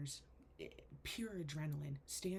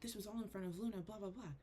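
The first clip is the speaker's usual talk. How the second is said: retold yelling; 4 semitones higher than usual. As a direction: reenact an outraged confrontation without full volume. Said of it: "like, yelling at my mom".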